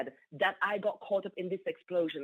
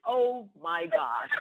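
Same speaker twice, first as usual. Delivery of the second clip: slow, stretched amazement; amazed; 4 semitones lower, much slower than usual. Real, not acted. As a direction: savour the disbelief. Shock at the promotion.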